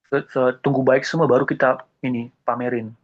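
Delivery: ordinary delivery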